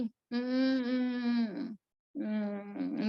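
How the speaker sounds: mm-mm-mm like it hurts to open your mouth; pained hums. Retold or imitated. Maid with toothache hums in answer to the narrator. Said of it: "धीरे से बोला उसने, बोला नहीं जा रहा था उसको".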